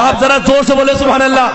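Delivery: quick, forceful call for a response; rally the congregation; loud call from the pulpit; rousing preacher. Real, not acted. Urges the crowd on.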